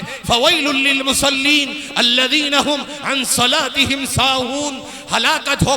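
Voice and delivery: forceful sermon narration, sustained; preaching. Acted. Preacher warning of Judgement Day, preaching. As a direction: proclaim it to the congregation.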